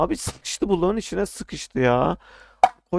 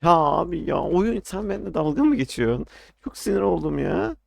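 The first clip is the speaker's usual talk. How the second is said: raised, higher angry complaint at the game; frustrated outburst; 4 semitones higher than usual. Real, not acted. Player yelling at the game that mocks him, in real annoyance. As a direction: rant at the game, fed up.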